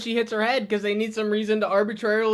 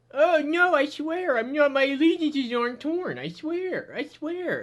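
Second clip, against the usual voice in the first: mock pleading; 5 semitones higher than usual. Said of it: "she's like".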